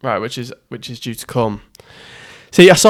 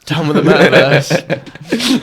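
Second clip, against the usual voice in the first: slow slogan echoed through laughter; mock rallying cry, breaking into laughs; laughing mock slogan; much slower than usual.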